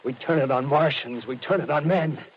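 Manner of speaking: lost in a power dream; building zeal. Acted. Artilleryman's power fantasy grows.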